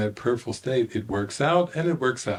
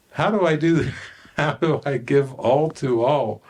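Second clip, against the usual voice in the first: laughing disbelief; 4 semitones higher, 3 dB louder than usual. Real, not acted. Laughing at own confusion.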